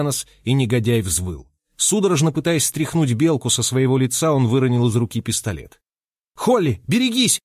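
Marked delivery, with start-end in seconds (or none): 6.3-7.4 higher urgent cry; sharp high alarm call; warning shout. A narrator's reading. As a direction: shout a warning across the room. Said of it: "крикнул Ной".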